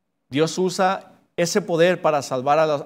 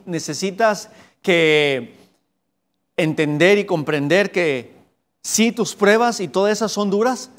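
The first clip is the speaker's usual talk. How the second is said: raised, louder voice of God promising help; God urging the believer to walk with him, raised and louder; God speaking to the believer; 4 semitones higher, 3 dB louder than usual. Acted. God speaking to the weary believer, raised and louder.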